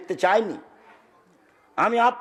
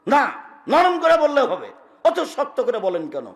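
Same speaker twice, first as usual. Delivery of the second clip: higher, louder insistent shout; 5 semitones higher, 3 dB louder than usual. Retold or imitated. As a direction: push the complaint hard and loud. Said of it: "খুব চিৎকার করে বলছে".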